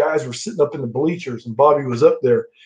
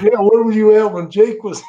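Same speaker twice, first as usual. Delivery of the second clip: laughing quip; 6 semitones higher, 4 dB louder than usual. Retold or imitated.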